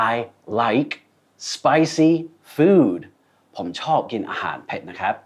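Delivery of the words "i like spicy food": each word spaced out slowly. Shown as a demonstration. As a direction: say it one careful word at a time. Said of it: "ลูกค้าอาจจะพูด".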